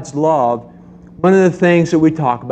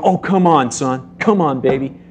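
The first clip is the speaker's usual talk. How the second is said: coaxing parent; 4 semitones higher than usual. Retold or imitated. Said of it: "and you go".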